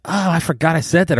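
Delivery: mild self-surprise, replayed; retold surprise. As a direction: act out suddenly remembering. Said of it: "and I'm like".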